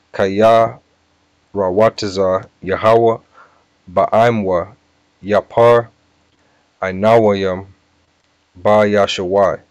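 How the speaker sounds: word-by-word slow teaching delivery; slow, deliberate recitation. Shown as a demonstration. Teacher giving the verse in Hebrew, slow and deliberate. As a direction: sound out each Hebrew word with pauses between. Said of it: "I'm gonna say it slow".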